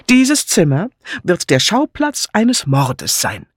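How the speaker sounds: high, slow, portentous proclamation; hammed-up doom with a sweeping flourish; theatrical announcement. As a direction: announce it like a grand melodrama. Patrick theatrically announces a murder.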